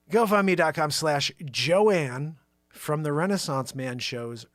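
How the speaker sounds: slow, deliberate address. Shown as a demonstration. Host reading out Joanne's fundraiser link slowly. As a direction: lay out every word slowly. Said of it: "I'm gonna say it slow this time".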